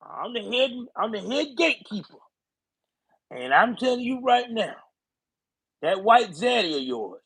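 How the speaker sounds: a hint of a southern party boss ordering voters around; Clyburn voice. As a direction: lay down the law like a head gatekeeper. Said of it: "That's how Clyburn talk".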